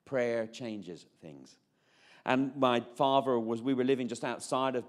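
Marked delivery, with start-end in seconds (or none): 0.1-1.6 very slow, each word laid down; solemn, slow reading of a wall sign. Shown as a demonstration. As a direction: spell the motto out slowly and deliberately. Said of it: "It said".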